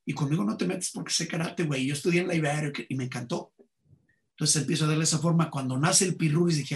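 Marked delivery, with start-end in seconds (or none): 0.0-3.5 lightly voiced Mexican fresa; a touch of fresa accent; Luis de Alba as fresa. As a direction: imitate a rich-kid fresa a little. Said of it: "Luis de Alba habla como fresa".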